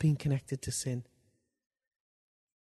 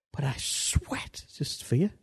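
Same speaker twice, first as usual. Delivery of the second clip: posh Englishman; slower than usual. Retold or imitated. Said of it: "He's a posh man".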